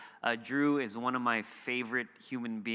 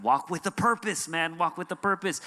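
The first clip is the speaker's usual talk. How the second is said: raised, higher mock yell of a crossing guard; imitating a yell; 4 semitones higher than usual. Crossing guard yelling at the preacher's son, mock yell. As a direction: bark it like a street crossing guard hurrying a kid. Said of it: "the crossing guard starts yelling at my son".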